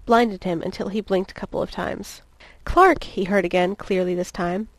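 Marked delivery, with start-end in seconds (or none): 2.6-3.0 high, loud call of Clark; sharp rise in pitch and volume; calling his name. Acted. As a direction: call out urgently to rouse him. Lois calls to dazed Clark.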